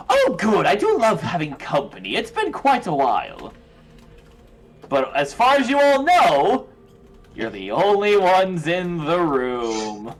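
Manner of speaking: lightly voiced foppish gentleman; a hint of a rich, fluting dandy; affected fluting fop. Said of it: "a rich, foppish voice".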